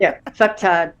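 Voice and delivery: put-on Boston accent on fucktard again. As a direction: drop the r, Boston style. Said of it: "It's with Boston Brian's accent".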